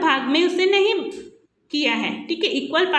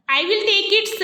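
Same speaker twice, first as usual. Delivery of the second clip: lightly voiced cat; 5 semitones higher, much slower than usual. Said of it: "said Mintu".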